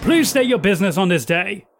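loud, high shout called out crisply. Voicing a gate guard greeting an arriving guest: guard shouting loudly. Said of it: "shouts loudly".

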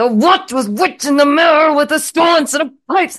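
shrill, high, loud, forced through clenched teeth. Retelling a character's reaction, imitating speech through gritted teeth. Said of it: "he was saying it with gritted teeth".

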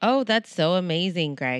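sarcastic, loud, drawn-out fake enthusiasm. Answering the other speaker's plug for the channel with fake enthusiasm. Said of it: "That was fake as fuck".

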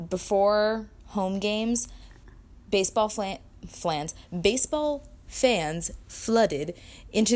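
very slow, careful delivery.

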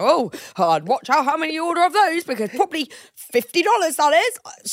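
passive-aggressive delivery, pitched way up, very high. Retelling another speaker's warning about drink prices: imitating passive-aggressive warning. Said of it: "So passive aggressive".

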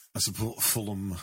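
slipping into northern English accent. Saying which football club he supports, Brian Clough accent. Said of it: "I said that in a kind of Brian Clough accent".

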